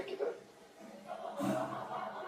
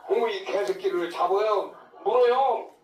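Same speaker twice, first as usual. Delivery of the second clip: woman's yell; 4 semitones higher, 5 dB louder than usual. Retold or imitated. Woman yelling about the dog.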